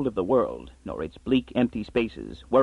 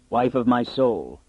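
purring; slower than usual. Acted. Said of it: "he purred".

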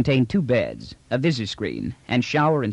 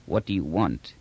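talking through still lips; 5 semitones lower, 3 dB quieter than usual. Acted. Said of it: "The words slurred from between unmoving lips".

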